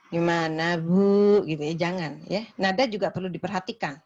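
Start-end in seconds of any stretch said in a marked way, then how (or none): 0.1-1.5 "Gimana, Bu?" with a sharp loud jump on "Bu"; wrong tone. Shown as a demonstration. Nurse asking a patient the wrong way, loud sharp "Bu?". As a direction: snap "Bu?" out loud and rising. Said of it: "Jadi jangan".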